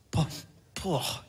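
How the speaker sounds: mock puff at a bad smell; acted stink reaction, short puffs; disgusted "poh". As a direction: exhale "poh" as if hit by a stench.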